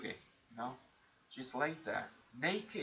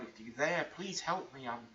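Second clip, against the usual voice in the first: rising, louder plea, a mild retold scream; retold desperate cry; 3 semitones higher, 4 dB louder than usual. Girl on the street begs God for help, mild retold cry. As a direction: cry out to God, half acted. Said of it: "she screamed out to God".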